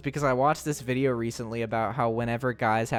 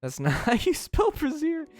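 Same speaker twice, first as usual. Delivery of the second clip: laughing; 12 semitones higher than usual. Real, not acted. Repeats correction while cracking up.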